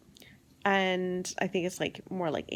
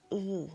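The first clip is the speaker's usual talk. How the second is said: soft, drawn-out ugh; groaned ugh; 5 dB quieter than usual. Shown as a demonstration. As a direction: groan in reaction to the ending. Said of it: "That ending is like".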